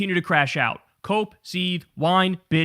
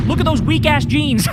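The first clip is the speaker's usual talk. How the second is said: laughing; 8 semitones higher, 5 dB louder than usual. Real, not acted. Mocking the commentator's looks.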